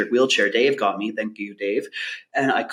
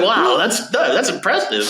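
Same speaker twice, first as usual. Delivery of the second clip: words squeezed out between laughs, higher; laughing through it; 8 semitones higher than usual. Retold or imitated. Telling G'day his joke while laughing, higher. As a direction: still cracking up as he says it.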